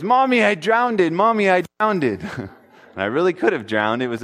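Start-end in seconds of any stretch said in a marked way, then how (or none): 0.0-2.2 imitated little child crying out. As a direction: cry out to mommy, re-enacting your younger self. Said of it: "all I could say was".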